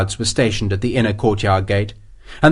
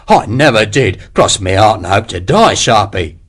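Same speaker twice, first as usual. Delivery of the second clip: wheedling oath; 2 semitones lower, 3 dB louder than usual. Acted. Hexwell swears innocence, voiced.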